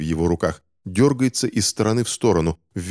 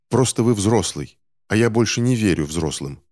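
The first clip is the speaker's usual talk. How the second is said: angry exclamation; 4 semitones higher than usual. Acted. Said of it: "гневно воскликнул Финч".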